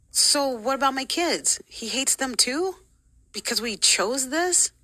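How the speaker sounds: high, slow incredulous questions; incredulous questioning. Retold or imitated. Asking church leader about her kids, incredulous.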